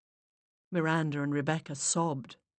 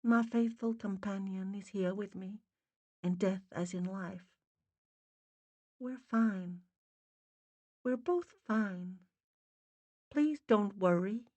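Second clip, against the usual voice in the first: faint, muffled Boston mother; muffled Boston spirit voice; Boston accent; 3 semitones higher, 5 dB quieter than usual. A narrator's reading. Dead mother greets Miranda in a faint Boston accent. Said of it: "faint and muffled".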